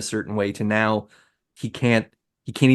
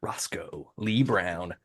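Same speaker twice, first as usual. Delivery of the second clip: awed whisper of the name; 4 semitones lower, 9 dB quieter, much slower than usual. Real, not acted. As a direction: breathe the name in hushed awe.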